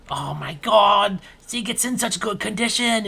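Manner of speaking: awed admirer. Acted. Marty admiring Sieg's Tuit, slow and awed. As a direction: marvel at the machine.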